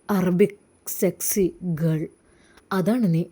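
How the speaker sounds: low, smooth pushy suitor; sleazy villain. Acted. Jaseer tries to lure Rasiya from hospital, low and smooth. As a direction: coax her out for tea. Villain flatters, offers money.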